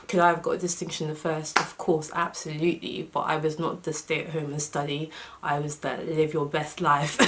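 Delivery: slight lisp from wearing retainers; talking with retainers in. Real, not acted. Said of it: "apologies for my lisp, but I do have my retainers in".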